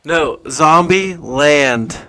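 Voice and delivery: slow, patient over-enunciation; talking to hard of hearing. Real, not acted. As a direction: spell it out slowly.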